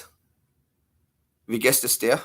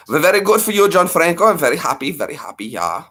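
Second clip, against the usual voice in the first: character voice; 5 semitones higher than usual. Acted. Same character voice again.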